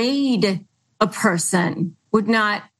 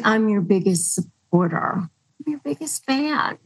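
mock sugary reassurance. Imitating a manipulative partner, a syrupy fake reassurance. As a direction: fake supporter cooing over a hollow promise. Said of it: "The next one is".

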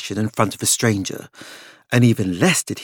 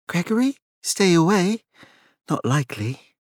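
disdainful, dismissive; sniffy scorn; 7 semitones higher than usual. Acted. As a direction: scoff at the idea. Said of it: "Claudia sniffed".

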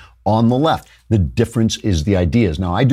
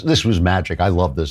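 usual speaking voice

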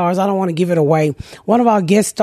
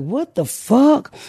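baffled; 4 semitones higher, much slower than usual. Retold or imitated. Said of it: "And I was like".

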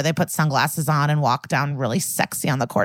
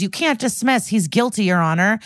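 retold yell; 4 semitones higher than usual. Stuckey protests the dismissal to the judge, high mock yell. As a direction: imitate a yelled courtroom protest without real volume. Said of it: "Stuckey yells".

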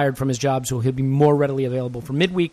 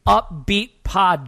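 forced upbeat; 4 semitones higher, much slower than usual. Acted. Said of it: "going to be a plucky, happy".

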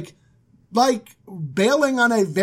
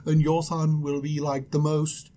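low, softer angel prophecy; 4 semitones lower, 5 dB quieter than usual. Acted. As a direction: put on the floaty angel, with pauses. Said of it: "I need to come up with an angel voice".

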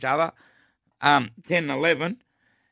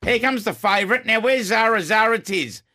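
race caller; 6 semitones higher, 4 dB louder than usual. Real, not acted.

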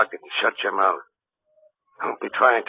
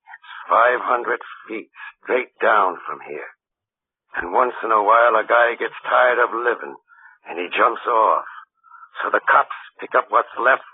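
menacing threat; 4 dB louder than usual. Acted. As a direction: lean on each word to frighten the boy. Gangster threatens Joe at cliff edge.

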